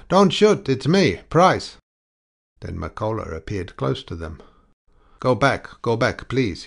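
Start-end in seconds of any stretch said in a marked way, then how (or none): 0.1-1.8 high, loud cry of alarm; a frightened man shouting in the dark; cried out. A narrator's reading. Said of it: "One of them cried". 5.2-6.6 louder, pressing plea; insistent, raised plea; urging. A narrator's reading. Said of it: "he urged".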